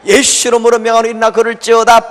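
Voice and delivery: hammed-up preacher's decree; mock healing command. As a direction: command it like a faith healer.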